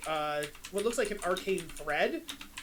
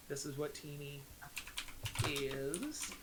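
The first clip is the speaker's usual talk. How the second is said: much softer and lower, dropped almost to a murmur; quiet ominous contrast; 6 semitones lower, 12 dB quieter, slower than usual. Shown as a demonstration. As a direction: let the word "is" sink low and quiet. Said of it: "how it started versus how it's going".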